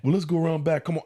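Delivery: mock seductive come-on. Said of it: "pretending to be a whore".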